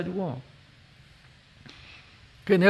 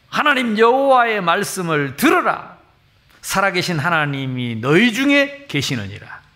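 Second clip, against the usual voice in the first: Joshua's proclamation; 4 semitones higher, 4 dB louder than usual. Acted. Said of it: "여호수아가 외쳤습니다".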